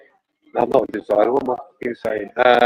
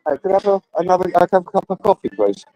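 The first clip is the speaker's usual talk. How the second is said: calling out politely; 6 semitones higher than usual. Real, not acted. Calling a waiter for coffee.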